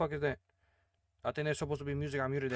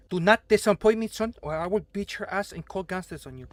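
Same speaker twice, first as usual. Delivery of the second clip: mock threat; 5 semitones higher, 4 dB louder than usual. Boss threatens the new chef.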